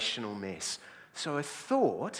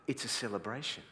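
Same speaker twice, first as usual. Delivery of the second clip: unfazed reply; 7 dB quieter than usual. Acted. Calm reply to exasperated older guy.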